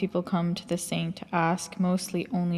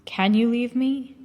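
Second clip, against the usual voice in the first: lilting, teasing question rising higher; hidden laughter; 5 semitones higher than usual. A narrator's reading. Teacher teases departing disciple, hidden laughter in the voice. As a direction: ask it with a touch of hidden amusement. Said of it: "His voice had a hidden laughter in it".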